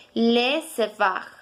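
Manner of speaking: Le sauvage said slowly; slow repeat. Shown as a demonstration. Teacher repeating Le sauvage slowly for learners. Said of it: "se pronuncia".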